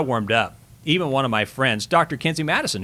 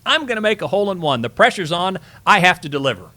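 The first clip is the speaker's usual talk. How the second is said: higher, a bit louder mock golfer psyching up; mock pressured golfer; 6 semitones higher, 4 dB louder than usual. Golfer on the tee pretending pressure, mock intense and higher. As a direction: ham up a golfer forcing the moment. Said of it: "and say".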